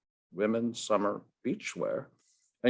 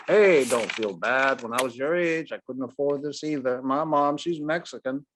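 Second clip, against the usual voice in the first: a lightly voiced ballplayer, consoling; a hint of a gruff ballplayer, kindly; friendly Ted Williams; 3 semitones higher than usual. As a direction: ease the boy's mind. Ted voice again.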